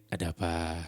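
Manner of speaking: mildly soothing DJ tone; late-night DJ intonation. Shown as a demonstration. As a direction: step into a quarrel with midnight-radio calm. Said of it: "dengan intonasi D J tengah malam ini".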